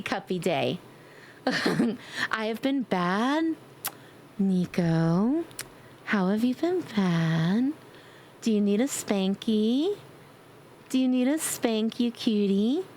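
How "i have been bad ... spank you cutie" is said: slow, teasing, coy; flirty teasing. Pretend. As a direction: tease the viewer coyly.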